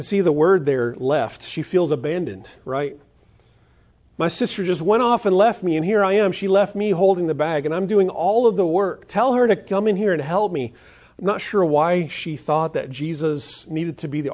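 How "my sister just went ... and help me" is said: higher, louder whiny grievance; exasperated complaint. Acted. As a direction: complain like the sister left with all the work. Acting out Martha's complaint.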